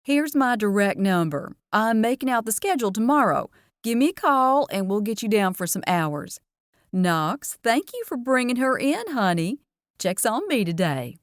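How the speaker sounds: a hint of a chatty diner waitress; Southern waitress Dory. Dory chats to the teens about her sweet tea, lightly Southern.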